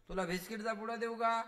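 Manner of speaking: high, coaxing voice of a mother; a mother pleading with her baby. Retold or imitated. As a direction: coax the little one gently but loudly.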